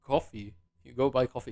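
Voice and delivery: toned-down American accent demo; lightly put-on American English. Shown as a demonstration. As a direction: say it evenly in an attempted American accent. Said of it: "say that in American accent".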